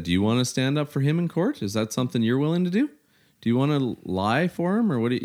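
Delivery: retold indignant cross-examination; heated challenge. Retold hallway argument.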